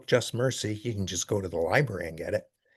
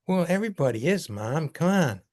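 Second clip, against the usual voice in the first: put-on whiny kid protest; 7 semitones higher than usual. Son protesting to mother.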